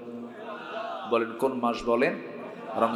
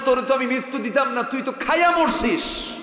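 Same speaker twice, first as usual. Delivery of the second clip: high, impassioned accusing voice; acted divine rebuke; 9 semitones higher, 4 dB louder than usual. Preacher voicing God rebuking a smoker, acted rebuke. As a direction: act out a reproach, dragging the last words. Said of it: "আল্লাহ যদি বলেন".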